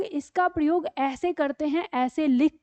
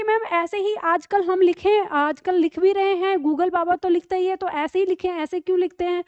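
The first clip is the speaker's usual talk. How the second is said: mock student; 4 semitones higher than usual. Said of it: "अब आप कहेंगे कि".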